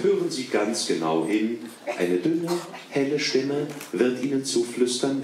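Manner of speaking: normal talking voice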